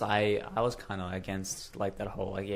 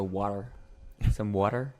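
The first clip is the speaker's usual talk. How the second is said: quick mock-American accent; 4 dB louder than usual. Shown as a demonstration. Showing mates their go-to word, American accent. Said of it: "when I do American accents".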